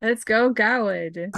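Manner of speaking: slow, drawn-out encouragement; root for your champion, stretching it out; cheering on. Real, not acted. Player cheers on Garwood, first take.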